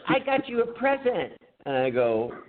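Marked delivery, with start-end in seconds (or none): 0.1-1.3 mock boss. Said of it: "And she goes".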